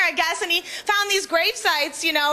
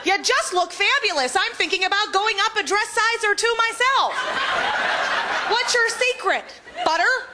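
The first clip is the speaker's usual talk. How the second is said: gushing admirer; 5 semitones higher than usual. Retold or imitated. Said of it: "someone would come up to me and go".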